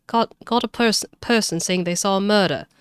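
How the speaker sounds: halting stab at a Cockney detective; attempted Cockney accent. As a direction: feel for the Cockney accent as you report. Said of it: "give him a Cockney accent".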